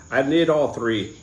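hesitant, drawn-out stab at Irish; slow, botched Irish lilt; attempted Irish accent. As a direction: try an Irish accent and miss. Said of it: "Or however Irish people speak".

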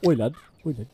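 imitated British roadman; British roadman accent. Imitating friend's sudden switch, British roadman accent. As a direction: mimic the friend's British lad-speak. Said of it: "Hearing you go from cowboy to".

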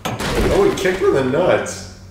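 lightly put-on Russian interrogator; Russian accent. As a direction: lean into a mild Russian accent. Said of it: "why I'm making him Russian".

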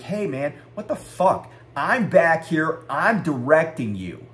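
exasperated retold yelling at normal volume. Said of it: "I yelled at him".

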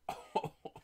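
short, airy burst of laughter; breathless laugh. Real, not acted. Breaker overjoyed at the pull, laughing. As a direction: laugh it out without voice. Laughs after big reveal.

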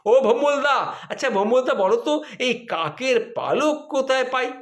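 lightly voiced sheepish husband asking; asking Bhombolda.

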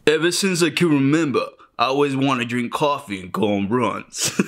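put-on New York accent. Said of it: "Working on my New York accent".

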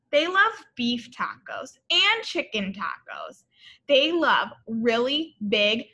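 lively, sing-song storybook read-aloud; bright read-aloud for little kids; reading to children. A narrator's reading. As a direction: read it like a picture book to a class.

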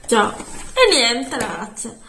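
talking round a hard candy; candy in the mouth while speaking; sucking a hard candy. Real, not acted. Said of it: "avevo la caramella in bocca".

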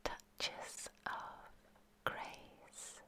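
slow, spaced-out whisper. Real, not acted. Meditation guide opens with the title, whispered. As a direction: whisper it slowly, word by word.

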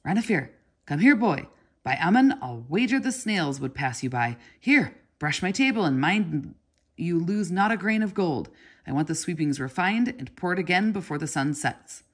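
loud, fast, scolding call; impatient calling. Acted. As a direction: bark orders across the shop at a dawdling boy. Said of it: "But Sata called again".

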